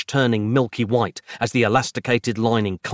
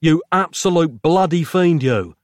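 loud, higher outraged bellow; bellowed insult; 7 semitones higher, 4 dB louder than usual. A narrator's reading. Nick bellows an insult at Strain, loud and outraged. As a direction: roar it at the villain. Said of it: "Nick bellowed".

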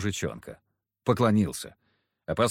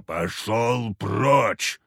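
very slow, drawn-out barked order; much slower than usual. Acted. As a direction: bark it, not grumble. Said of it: "а гаркнул Харисим".

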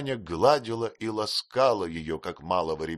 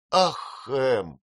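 a tearful cry of his name, higher and louder; 6 semitones higher, 6 dB louder than usual. Acted. Girl crying out to her sweetheart in tears, a tearful higher cry. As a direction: cry out to him through bitter tears. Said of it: "воскликнула девушка, горько плача".

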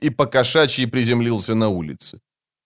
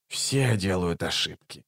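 low, soft muttering; muttered; 5 semitones lower, 9 dB quieter than usual. Acted. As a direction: mumble it under your breath. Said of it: "пробормотал Раллик".

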